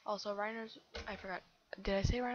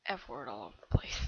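gamer cursing voice; 9 semitones lower, 4 dB louder than usual. Retold or imitated. Kid imitates herself cursing in Call of Duty, low mock rant. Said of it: "I'll just be like".

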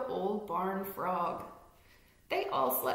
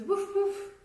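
high, louder barks; dog bark; 10 semitones higher, 5 dB louder than usual. Acted. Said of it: "The dog says".

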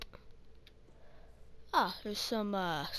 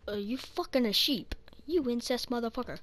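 louder joking indignation at the animals; mock outrage; 2 semitones higher, 5 dB louder than usual. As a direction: yell at the sheep in fake shock.

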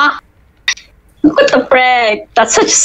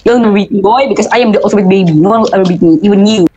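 mad scientist; much faster than usual. Acted. Boasts as the ultimate baby.

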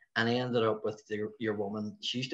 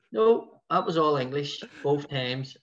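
shocked denial; 4 semitones higher, 4 dB louder, slower than usual. Retold or imitated.

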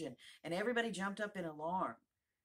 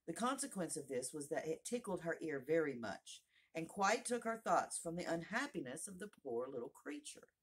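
ordinary delivery, nothing marked

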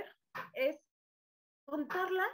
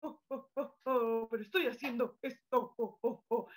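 Santa Claus laugh. Shown as a demonstration. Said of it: "jueguen a que son Santa Claus".

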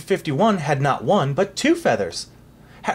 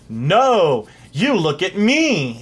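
gleeful; 3 semitones higher, 5 dB louder, much slower than usual. Acted. King answers gleefully.

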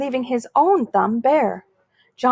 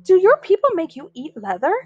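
taunting; 6 semitones higher, 4 dB louder than usual. Acted. Bully taunts John.

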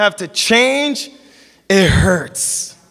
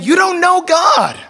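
stern rebuke; 8 semitones higher, slower than usual. Acted. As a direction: shout it at the crowd, hardline. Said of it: "he's saying".

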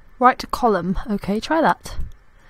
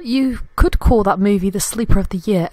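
sleeper given extra weight; stress on sleeper. Shown as a demonstration. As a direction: lean hard on the word sleeper in the joke. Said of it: "emphasis on sleeper".

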